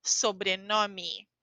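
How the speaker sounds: very slow "sobrenome" ending in i; final E as i. Shown as a demonstration. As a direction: drag out each syllable of "sobrenome". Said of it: "a gente fala i".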